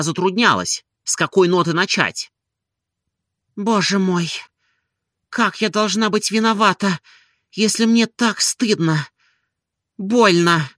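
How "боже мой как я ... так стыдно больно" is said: a touch of higher, pained woman's voice; lightly voiced Olga. A narrator's reading. Ashamed Olga agonizes inwardly, lightly higher and pained. Olga's anguished inner cry.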